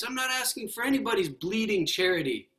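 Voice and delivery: high, stubborn refusal of charity; indignant ghost. Acted. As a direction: spit out bleeding charity. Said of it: "the ghost".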